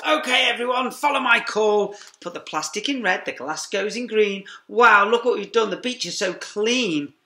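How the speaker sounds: high, loud calling out; shouting to all. A narrator's reading. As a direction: call the whole crew together. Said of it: "shouted to all".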